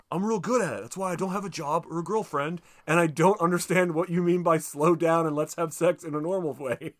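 hammed-up defensive frustration; frustrated. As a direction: insist indignantly in a retold argument. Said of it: "he gets frustrated 'cause he's like".

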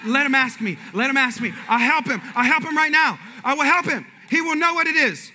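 high, keen voice of someone dying to answer; eager churchgoer. Retold or imitated. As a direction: play the listener bursting to answer. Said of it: "You're like".

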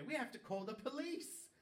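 imitated panicky shout; retold screaming. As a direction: yell it like a frantic boyfriend. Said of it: "he's screaming in English".

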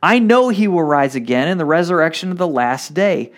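measured reading of the Gospel to the congregation; scripture reading. Acted. Pastor reading John eleven to the church, measured. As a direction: read it out like a lesson from the pulpit. Preacher reads John 11 aloud.

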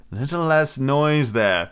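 slow, drawn-out call for order; measured, commanding call. A narrator's reading. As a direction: call across a noisy room, stretching the words. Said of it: "Peter called out".

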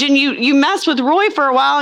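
ordinary talk, nothing marked

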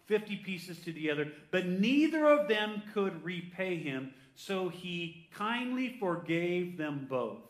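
slow, deliberate telling of a parable; scripture story reading. Acted. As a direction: spread the phrases out for the congregation. Reads Jesus's parable aloud.

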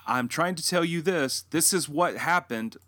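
re-enacted frustrated insistence; acted angry pleading. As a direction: plead to be heard, retelling an argument. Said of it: "when I get really angry".

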